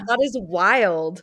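amused laugh through the words. Real, not acted. Host reacting to the breathing trick, laughing. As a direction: laugh as you say it.

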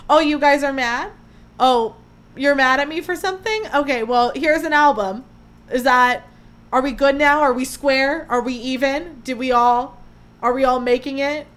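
mock unbothered. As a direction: play it as a shrug to angry fans. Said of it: "She's like".

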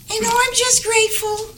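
softly put-on English accent. Puppet Olivia thanks host, gentle English accent. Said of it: "I just love your English accent".

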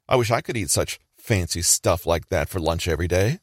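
mildly condescending mock envy. Manipulator eyeing someone's lunch at work, mildly condescending. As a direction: fish for sympathy with put-on envy. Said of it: "condescending voice".

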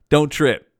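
laughing through a light reassurance. Real, not acted. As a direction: chuckle it out easygoing.

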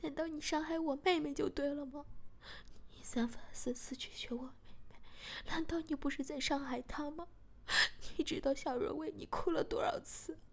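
heated accusing voice, pushing harder each line; angry retort. Acted. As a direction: hit back in rising anger. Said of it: "小贤也生气地说".

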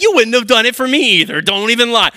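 playful retort. Retold or imitated. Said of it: "And I'm like".

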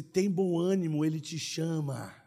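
slow, falling and softening to the end; slow reassurance. Acted. Quoting the encouragement to blind man.

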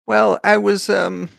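high little mouse voice, hurried then halting; a small creature recounting the errand; nervous mouse messenger. Acted.

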